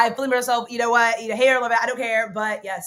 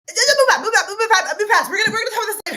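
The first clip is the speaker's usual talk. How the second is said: laughing; 10 semitones higher, 7 dB louder, faster than usual. Real, not acted. Flustered laughing deflection.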